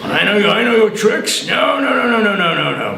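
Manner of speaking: a touch of a wary devil; refusing devil. Acted. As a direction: shoo him off knowingly. Devil refuses Black John.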